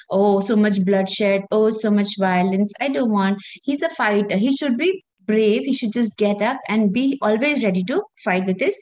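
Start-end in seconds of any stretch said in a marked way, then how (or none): 0.1-3.4 mock timid pleading. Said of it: "that he's acting like".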